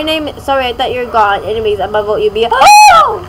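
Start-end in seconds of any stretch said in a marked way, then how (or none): 2.5-3.2 high, loud startled oh; a sudden gasped oh. Real, not acted. Sudden game event.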